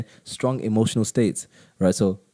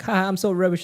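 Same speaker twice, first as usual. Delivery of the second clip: mock self-put-down; 11 semitones higher than usual. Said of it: "you're like".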